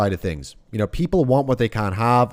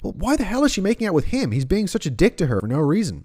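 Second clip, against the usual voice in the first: incredulous younger self; 7 semitones higher, faster than usual. Retold or imitated. Imitates younger self objecting.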